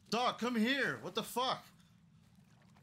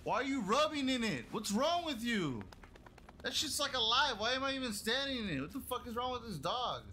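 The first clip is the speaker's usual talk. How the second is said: disgusted disbelief; 7 semitones higher than usual. Real, not acted. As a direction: shout at the dog in disgust. Dog rolling in strange goo.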